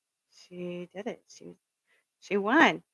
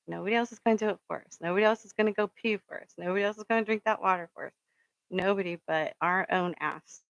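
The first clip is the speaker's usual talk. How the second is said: fast, punchy and rising; rally the viewers, quick and driving; fired-up pep talk; faster than usual. Real, not acted. Vlogger rallying viewers to try, fast and fired up.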